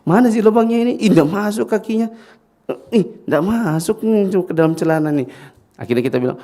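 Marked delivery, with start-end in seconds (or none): 0.1-5.3 high, loud, laughing through it; laughing father. Acted. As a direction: play the fumbling father while cracking up. Father fumbles, the teller is laughing.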